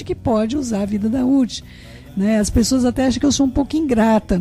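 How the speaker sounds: ordinary talk, nothing marked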